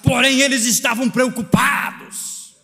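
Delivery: high, insistent pulpit delivery; impassioned preaching. Real, not acted. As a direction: drive each phrase home, stretching key lines. Preaches at full force.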